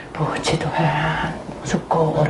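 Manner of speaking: whispered relief. Retold or imitated. Mock-grateful whisper after bad news.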